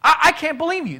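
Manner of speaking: Nineveh men accusing. Acted. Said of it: "they're gonna say".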